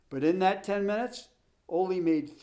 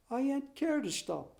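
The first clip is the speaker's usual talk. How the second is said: higher, softer, plain-spoken immigrant; simple Swede runner; 8 semitones higher, 6 dB quieter than usual. Acted. Swedish runner answering his coach while running, mildly stubborn. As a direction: answer with mild stubborn innocence.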